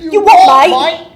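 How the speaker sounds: loud, bad British accent. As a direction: try a British accent and miss. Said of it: "I'm not good at doing British".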